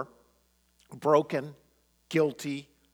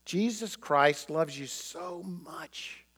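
tender, slow reassurance; 4 semitones higher, slower than usual. Retold or imitated. Friends gently reassure a condemned Billy, slow and tender.

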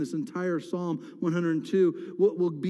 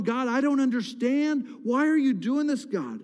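higher, stretched-out protest; bewildered complaint poured out; crying out to God; 4 semitones higher than usual. Acted. Worshipper questioning God, crying out. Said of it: "we cry out to God".

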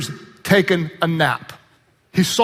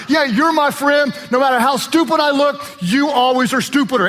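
mock smug friend; 4 semitones higher than usual. Mocking friend quote.

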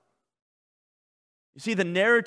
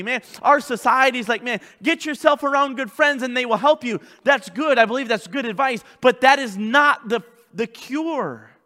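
louder, raised preaching voice; full-force preaching; 7 semitones higher, 8 dB louder than usual. Real, not acted. Pastor confessing the need for change, forceful preaching. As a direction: press each phrase home with force.

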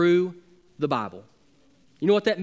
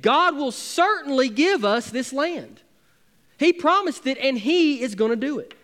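forcefully; 7 semitones higher than usual. Retold or imitated. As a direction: proclaim it with bold certainty. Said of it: "forcefully said".

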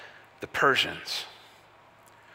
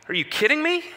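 much higher, squeaky mock incredulity; mock disbelief; 13 semitones higher than usual. The exiled people scoffing at God's promise, much higher and incredulous. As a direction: toss it up high in exasperated disbelief. Frustrated people answering God.

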